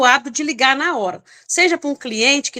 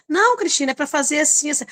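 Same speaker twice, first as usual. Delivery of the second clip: curt client; 3 semitones higher than usual. Retold or imitated. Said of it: "que fala muito reto".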